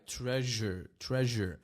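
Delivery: "treasure" with a held, buzzing zh; vibrating zh. Shown as a demonstration. Teacher showing vibration in the throat, buzzing zh. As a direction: lean on the voiced zh in "treasure". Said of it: "There's vibration in your throat".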